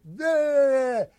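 loud, high scoffing "Nah"; blunt shout. Retold or imitated. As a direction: shout the refusal at him. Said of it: "And they're like".

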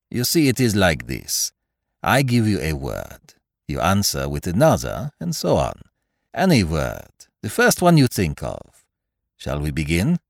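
put-on methodical detective in a French-style accent; Poirot, foreign-accented detective. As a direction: reason it out aloud with a foreign accent. Voices Poirot in dialogue.

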